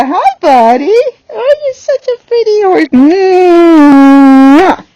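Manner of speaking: high, slow cooing sweet talk with a kiss; cooing to the horse. Acted. Trainer greeting her new horse, high sweet cooing. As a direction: coo over him like a pet.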